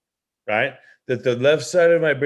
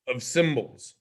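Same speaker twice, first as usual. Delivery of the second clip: ordinary delivery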